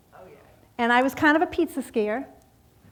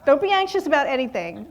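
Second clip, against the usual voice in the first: verse repeated, a touch louder and amused; 4 semitones higher, 5 dB louder than usual. Shown as a demonstration. Woman repeats the verse to God with wry amusement. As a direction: say it with a wry giggle at how hard it is. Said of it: "I have to giggle".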